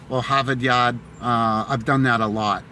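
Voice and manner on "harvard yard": Boston accent with dropped r's; old Boston accent. Shown as a demonstration. Showing what he used to say, Boston accent. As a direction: drop the r's, Boston style. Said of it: "I used to say".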